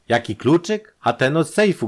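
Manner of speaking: high, loud, rising „Jaki kluczyk“; exasperated echo. A narrator's reading. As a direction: throw the question back in agitation. Robbed brother throws her question back.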